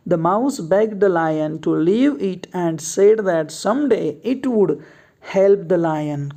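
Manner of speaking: reads each word out slowly for the class to copy; slow dictation reading. Shown as a demonstration. Teacher reading the fill-in story to students, slow and deliberate. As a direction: spell the passage out word by word, unhurried.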